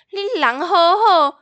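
imitating mom scolding the scammer very slowly; slow mock lecture. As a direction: stretch 你人好好 out slowly like a gentle sermon. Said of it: "他直接这样讲说".

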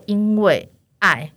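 因为爱 said slowly and evenly, each syllable drawn out; slow answer. Retold or imitated. Saleswoman answering client's question, slow 因为爱. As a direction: draw out 因为爱 slowly, no extra force. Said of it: "而且我很大声".

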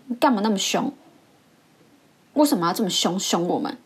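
indignant pupil's outburst, retold; loud blurt. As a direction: blurt it out at the teacher, half-loud. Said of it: "就是很大声说".

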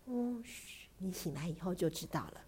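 soft, shushing bedtime voice; mother hushing a sleepy child; hushed. Acted. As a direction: hush her gently toward sleep.

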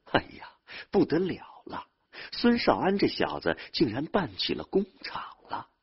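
high-pitched, envious villager's marvelling; amazed exclamation. Acted. Villagers envying the Sun family's new kiln, amazed. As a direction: exclaim in wonder at a neighbour's luck.

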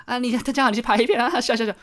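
high, mocking voice of people who jeer; mocking quote. Onlookers jeering at someone who filmed a movie, mock high voice. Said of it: "人家说".

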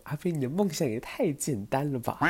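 gently mock the old man's tiny dream; teasing. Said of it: "我就跟阿伯说".

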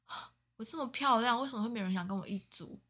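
1 mock vain classmate. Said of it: "他这样讲".

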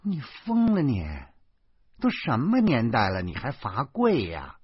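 scandalised protest; incredulous reproach. Acted. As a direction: challenge him in exasperated disbelief. Wife objects to the punishment.

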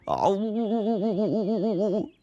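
very high wailing Snow Maiden; high-pitched calling out. Acted. Snow Maiden calling to the dog from her tree, shrieky high wail. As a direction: howl and stammer for help at the top of the range. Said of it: "水姑娘高声喊道".

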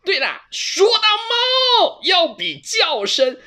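very high, loud cat jeering with laughter; laughing mockery. A narrator's reading. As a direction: laugh at his silly meow. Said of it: "球球一边大笑". (球球边大笑边嘲弄，声音尖高)

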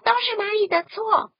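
高而响的群体怒喊; 一群动物一起冲着河马喊; 齐声吼叫. Acted. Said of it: "都生气地大声吼叫". (大声怒吼)

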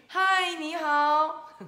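loud, high, drawn-out hello; big sung-out storybook reply; hedgehog returning greeting. Acted. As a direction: call the greeting back slowly. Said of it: "刺猬先生也跟他说了一句".

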